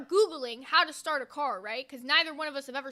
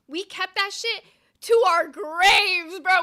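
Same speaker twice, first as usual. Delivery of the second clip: laugh-shouting; 3 semitones higher, 8 dB louder, much slower than usual. Real, not acted. Laughing at the secret.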